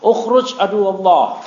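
slow, firm ruqyah command; commanding the jinn. Retold or imitated. Teacher demonstrating an Arabic exorcism command, slow and firm. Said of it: "pakai bahasa Arab".

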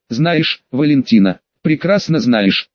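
ordinary delivery, nothing marked

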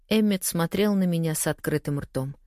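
ordinary delivery

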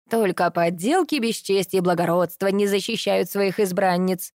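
mocking squeaky woman imitation; mock her in a squeaky voice; high squeaky mocking voice. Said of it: "передразнил я высоким писклявым голосом".

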